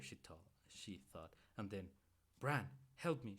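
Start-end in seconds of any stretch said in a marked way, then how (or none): 2.4-3.4 loud urgent cry for help; urgent call. A narrator's reading. Mother urgently calling her son to help with Bran. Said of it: "she said, urgently".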